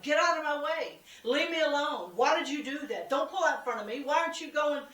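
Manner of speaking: hammed-up annoyed driver; mock road rage. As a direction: gripe like a driver stuck in traffic.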